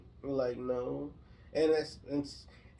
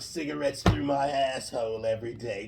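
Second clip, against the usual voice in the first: loud put-on Jersey darling; exaggerated Jersey smoker woman; New Jersey accent; 7 dB louder than usual. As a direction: brag in a hammed-up Jersey accent. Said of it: "sound like this all the time".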